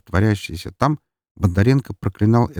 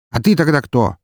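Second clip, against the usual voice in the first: higher-pitched, exasperated question; impatient bark; 7 semitones higher, 4 dB louder than usual. A narrator's reading. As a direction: lose patience and bark it. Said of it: "рявкнул Бондаренко, теряя терпение".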